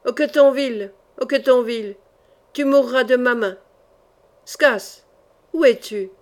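loud, defiant challenge; defiant battle cry; cried out. Acted. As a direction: call them out to fight. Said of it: "Il cria".

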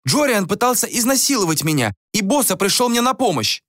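high, indignant woman's voice; acted outraged outcry; yelled accusation. A narrator's reading. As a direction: accuse him before everyone. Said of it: "завопила Ванора".

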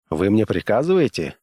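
ordinary delivery, nothing marked

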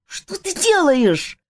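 high, slow alarmed cry; frightened cry. A narrator's reading. Friend sees the prince dunked in water, frightened cry. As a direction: gasp it out in alarm. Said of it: "послышался испуганный вскрик Жака".

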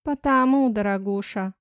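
condescending schoolmarm; lecturing tone. Acted. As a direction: talk down to her. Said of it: "поучительным тоном". (поучительно, свысока)

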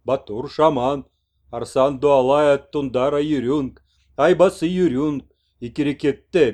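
slow, loud, solemn broken Russian of the shaman messenger; proud messenger. Acted. Messenger proudly announces the shaman to the old man, slow and loud. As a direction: proclaim each name slowly and proudly.

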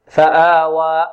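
slow فآوى ending on an open alif, no glottal stop; no final hamza. Shown as a demonstration. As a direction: let the last "aa" of فآوى release freely. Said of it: "كذلك لا نختم بهمزة". (فآوى دون همزة في آخرها)

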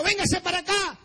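calling over. Retold or imitated. Injured man beckoning a girl, calling over.

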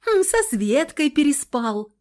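high, sneering sarcastic jab; sarcastic prompt. A narrator's reading. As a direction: needle him about Svetka. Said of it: "подсказала я язвительно".

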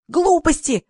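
high squeal of protest; shrieking. A narrator's reading. Sonya shrieks down the phone, high squeal. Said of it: "заверещала Соня".

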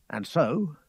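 ordinary delivery

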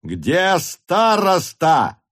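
high, very slow furious yell; officer demanding the headman, furious and slow; frenzied shout. A narrator's reading. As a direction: rage it out word by word. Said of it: "неистовым голосом кричал он".

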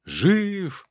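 high, joyful shout of a crowd; excited crowd cry. A narrator's reading. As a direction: cry out in amazed delight. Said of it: "загомонили они". (восторженный возглас толпы)

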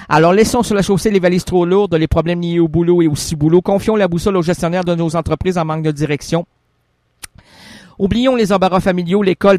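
grand radio host read; show narration. Acted. Host urging listeners to leave worries, grand announcer read. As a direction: declaim it like a poetic intro. Host resumes scripted intro.

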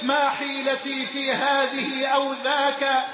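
measured devotional recitation; poem recitation. Acted. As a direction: recite it as a humble prayer.

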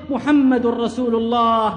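slow, solemn, held firm; dying man's slow creed. Acted. Martyr repeating his creed as he dies, slow and solemn. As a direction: say it slowly as life ebbs. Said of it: "ثم فاضت روحه وهو يردد".

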